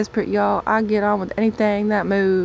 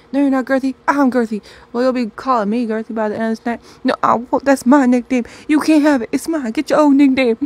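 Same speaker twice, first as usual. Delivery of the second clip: higher, louder, possessive shouting; indignant yell; 5 semitones higher, 8 dB louder than usual. Acted. Gerthilda yells at Harold over her nickname, loud and possessive. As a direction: shout to claim what's yours.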